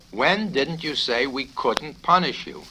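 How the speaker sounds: exasperated colonel. Acted. Colonel cross-examining the confused cadet, exasperated. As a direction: press him, losing patience.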